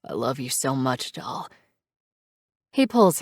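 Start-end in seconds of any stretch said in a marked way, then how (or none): 0.0-1.5 soft, fading into a cracked whisper of love; quiet, lower, near tears; voice breaking. A narrator's reading. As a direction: let the voice crack on doll. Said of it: "Reaper's voice breaks".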